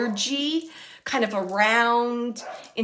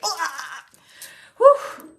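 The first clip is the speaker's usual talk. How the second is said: frustrated cry; 7 semitones higher, 6 dB louder than usual. Retold or imitated. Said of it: "It's like".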